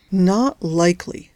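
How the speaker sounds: slow, bitter dismissal. Acted. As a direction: say it slowly with a sour edge. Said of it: "said Judy bitterly".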